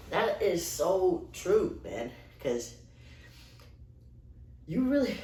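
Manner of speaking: breathless after jamming out; panting between words; out of breath. Real, not acted. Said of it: "Sorry, I'm out of breath".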